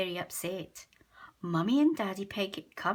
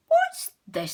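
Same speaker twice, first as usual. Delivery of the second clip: Peppa; 8 dB louder than usual. A narrator's reading. Peppa voiced in story.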